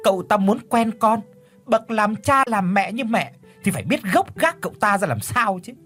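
high, scornful, smirking reply; smirking retort. Acted. Mother smirks while lecturing her daughter, high and scornful. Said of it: "nhếch mép bảo".

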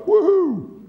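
high, whooping cheer; hammed-up whoop as if graduating; mock celebration. Preacher imitating a new follower celebrating, exaggerated high whoop.

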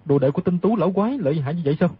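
low, fast astonished question. Acted. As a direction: ask quickly in a low voice, taken aback. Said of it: "kinh ngạc nói". (giọng trầm, hỏi dồn kinh ngạc)

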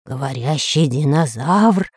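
low, slow astonished dread; startled. Acted. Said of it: "вздрогнул Бульбуль".

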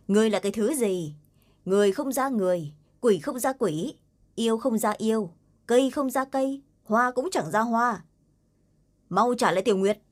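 shouted insults, pitch climbing; yelling. Acted. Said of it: "cũng hét lớn".

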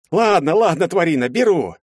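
high, loud gurgled cry; gurgling. Acted. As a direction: gurgle it out, half drowning. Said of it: "кое-как смог побулькать я".

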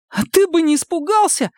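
very high thin retort; thin snap back. A narrator's reading. Загнанный Женя тоненько огрызается на обидчика. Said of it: "тоненько огрызнулся Женя".

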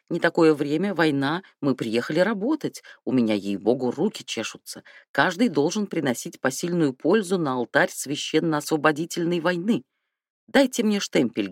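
a hint of smug creaky chatter; lightly voiced self-satisfied chatterbox; smug creaky patter. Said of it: "трещал скрипучей самодовольной скороговоркою".

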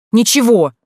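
loud, high snapped denial with a falling end; defiant shout. Acted. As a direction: fling the word back defiantly. Сестра огрызается на вопрос. (громко выкрикнутое «Ничего!» с падением)

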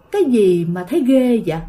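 a lightly voiced strange man, echoing; man's voice. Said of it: "giọng của một người đàn ông".

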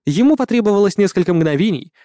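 usual speaking voice

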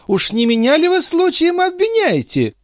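put-on high outraged cry of an old concierge; indignant old woman. A narrator's reading. The concierge outraged at Marat's accusation, high indignant cry.

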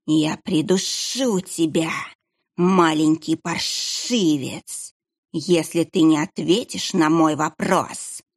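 slow, menacing hissed threat; hissing sinister monk. Acted. Monk pins the boy and hisses his threat slowly. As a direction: stretch the words like a snake.

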